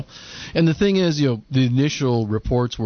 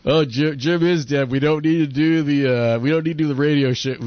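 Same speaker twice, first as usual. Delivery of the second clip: higher, building to a gleeful cry; mock villain gloat; 4 semitones higher than usual. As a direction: gloat over the kill, getting shriller. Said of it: "It's like".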